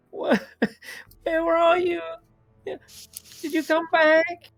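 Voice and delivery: very high wail, sobbing in pain. Voicing a sobbing creature that calls out to someone, wailing in pain. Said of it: "it really is like wailing in pain".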